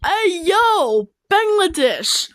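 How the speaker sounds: loud excited call. Real, not acted. Calling out to Bangladesh on screen, loud. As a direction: shout the name across the room.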